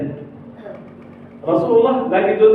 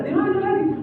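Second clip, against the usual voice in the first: higher, anxious question; urgent searching; 12 semitones higher, 4 dB quieter than usual. Acted. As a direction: call out looking for him. Umar searching for Abu Bakar.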